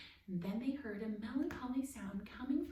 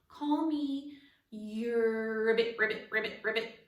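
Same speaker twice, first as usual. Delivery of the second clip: the words turn into frog croaks; croaking frog; 7 dB louder than usual. Acted. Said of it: "He frowned and tried to call".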